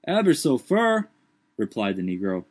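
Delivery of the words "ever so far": high, dialect servant voice raised in alarm; high put-on dialect voice, startled; Jupiter's voice. A narrator's reading. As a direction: lift the voice high and protest. Jupiter answers from tree.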